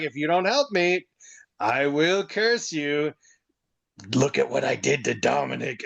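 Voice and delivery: lightly acted threat, slowing right down; mock curse threat. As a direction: draw out the curse as a playful warning.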